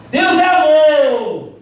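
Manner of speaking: loud and slow, proudly proclaimed; said loudly. Retold or imitated. Preacher mocking how believers proclaim God's love, loud and slow. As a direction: boom it out for all to hear. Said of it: "Aí fala bem alto".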